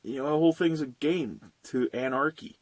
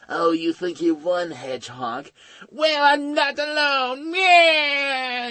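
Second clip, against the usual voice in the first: rising to a much higher shouted cry; gloat, then break into a high shrieking yell; hammed-up villain taunt; 10 semitones higher, slower than usual. Voicing Snively taunting Sonic.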